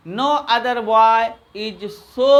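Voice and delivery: each word drawn out for students to write; slow dictation. Shown as a demonstration. Teacher to class while they copy, very slow dictation. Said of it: "teacher dictates slowly".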